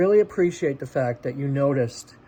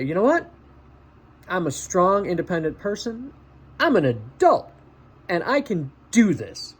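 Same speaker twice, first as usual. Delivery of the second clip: mirror pep talk. Shown as a demonstration. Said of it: "look in the mirror if you have to, and just say".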